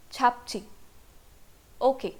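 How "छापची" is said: छापची with an aspirated ch at the start; correct Korean pronunciation. Shown as a demonstration. Teacher models the correct Korean word छापची. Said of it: "च वाला sound ज़्यादा close है".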